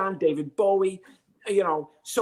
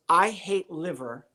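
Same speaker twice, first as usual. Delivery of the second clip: slow lyric reading; slower than usual. Retold or imitated. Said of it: "The first lyric is".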